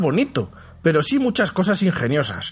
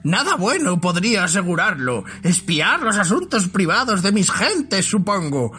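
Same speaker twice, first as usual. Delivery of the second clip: goblin voice; 4 semitones higher than usual. Acted. Great goblin interrogates Thorin.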